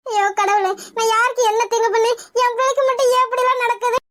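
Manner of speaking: mildly weepy, despairing appeal; tearful lament. Acted. Mother asking why her child suffers, tearful. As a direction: cry out to God in acted grief. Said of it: "அழுகாதீங்கம்மா".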